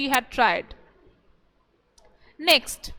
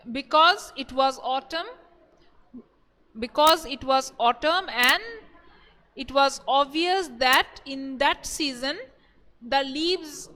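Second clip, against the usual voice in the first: short phrases parted by pauses; teacher giving an answer to be written down; dictation. Acted.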